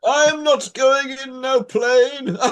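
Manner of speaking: loud, high, slow Mister T growl; Mister T impression. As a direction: bellow it like Mister T. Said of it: "doing Mister T".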